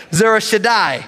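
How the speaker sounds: bold reading. Real, not acted. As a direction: say the name like you mean it. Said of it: "gonna read these names with boldness".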